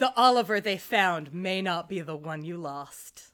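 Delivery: slow, dramatic mother's line. Retold or imitated. Retelling a mother's line from the show, very dramatic. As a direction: deliver it slowly, with mild melodrama. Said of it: "Very dramatic".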